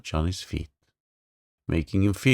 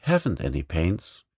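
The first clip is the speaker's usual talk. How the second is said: correct grammar; 2 semitones lower than usual. Shown as a demonstration. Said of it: "You should say".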